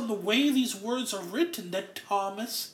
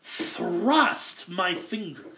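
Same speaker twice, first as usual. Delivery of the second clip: thrust my finger said slowly, each word weighed; stress on thrust; much slower than usual. Shown as a demonstration. Preacher giving the stronger word, slow and deliberate. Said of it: "a better way of saying it would be".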